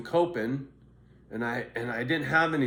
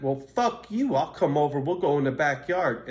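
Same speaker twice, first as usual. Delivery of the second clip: higher and louder retold dare to fight; mock angry challenge; 3 semitones higher, 5 dB louder than usual. Friend daring him to fight in the backyard, angry higher shout. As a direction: throw down the challenge to step outside.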